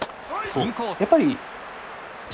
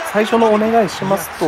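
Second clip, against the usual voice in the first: Kagoshima accent; 5 semitones higher than usual. Real, not acted. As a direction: slip into a Kagoshima lilt on お願いします. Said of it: "今、なまってましたね".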